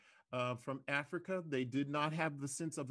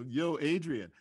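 Rocky impression; 4 dB louder than usual. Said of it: "like yo Rocky".

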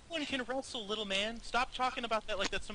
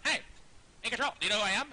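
mock rival player; 3 semitones higher, much faster than usual. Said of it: "like, you're like".

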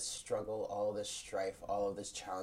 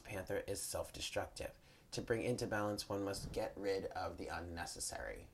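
calm card reading voice; reading aloud; 3 dB quieter than usual. Acted. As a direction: read the guidebook text steadily. Reads the card guidebook.

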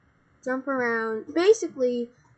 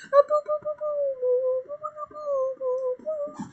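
put-on high sing-song Russian-accented "boo"; mock Russian accent; 13 semitones higher than usual. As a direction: ham up a Russian villain. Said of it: "giving him a Russian accent".

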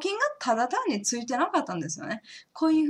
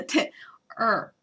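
normal talking voice

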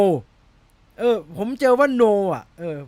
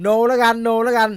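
laughing; 4 semitones higher, 6 dB louder than usual. Real, not acted. Laughing decision on name.

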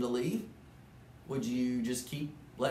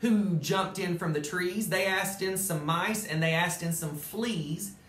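lively storybook narration; animated read-aloud; reading to children; 3 semitones higher, slower than usual. A narrator's reading. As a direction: tell it like a bedtime story to kids. Reads Dr. Seuss story aloud.

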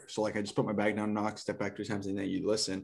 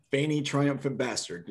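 movie quote; 4 semitones higher, slower than usual. Pretend. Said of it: "That's a quote from what?".

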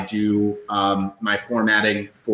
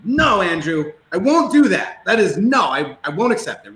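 put-on childish protest; 8 semitones higher than usual. Refusing coach Andrew's advice, mock childish whine. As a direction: protest like a pouting five-year-old. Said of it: "I acted like a little five-year-old".

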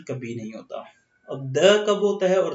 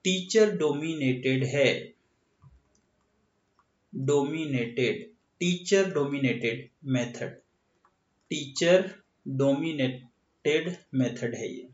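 slow dictation. Shown as a demonstration. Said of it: "या short में लिख लेते हैं".

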